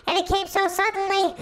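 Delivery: dramatic squeal. A narrator's reading. Dramatic monster arrival.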